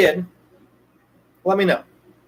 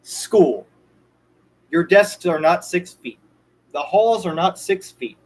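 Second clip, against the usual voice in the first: slower, deliberate; slower than usual. Shown as a demonstration. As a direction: lay each point out slowly. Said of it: "let me say it slower".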